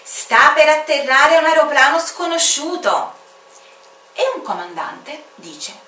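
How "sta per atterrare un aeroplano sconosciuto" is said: high, loud announcer call; bright loudspeaker announcer voice; airport announcement. Acted. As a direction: announce it over the airport speaker. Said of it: "Al microfono si sente annunciare".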